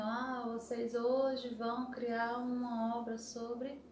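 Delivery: slow, drawn-out mock lecture; fala sem olhar. Shown as a demonstration. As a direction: drag the words out slowly, as if not addressing anyone. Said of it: "e falando assim". (fala arrastada, como aula sem olhar a turma)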